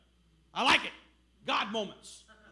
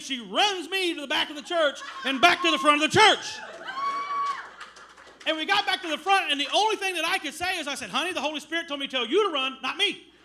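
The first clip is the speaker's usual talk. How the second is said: laughing; 3 semitones higher, 5 dB louder than usual. Real, not acted. Comic retelling of the run.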